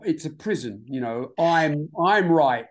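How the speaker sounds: put-on smug little child. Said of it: "I want you to deliver it like you're".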